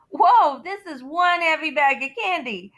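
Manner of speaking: loud, high whoa at the weight; mock straining cop; surprised strain. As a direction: react to a heavy load. Policeman lifting heavy bag.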